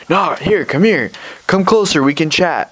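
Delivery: put-on high, beckoning drunk voice; imitated drunk coaxing. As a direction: mimic a drunk luring people over. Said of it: "He's, like, drunk".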